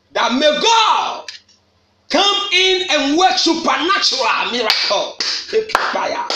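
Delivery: prophetic shout. Real, not acted. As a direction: call down the miracle with force. Preacher prophesying over the congregation.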